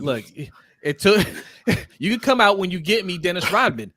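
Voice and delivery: hammed-up Jordan barking orders; lightly voiced Jordan, half laughing; mock Jordan. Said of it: "Jordan stuffed him in the locker and said".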